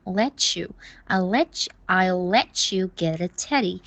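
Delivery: "let you" slowly linked, with a full oo ending on "you"; exaggerated "you". Shown as a demonstration. Teacher correcting Michael's you sound, exaggerated oo ending. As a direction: stretch "you" in "let you" to a rounded oo. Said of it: "再夸张一点儿".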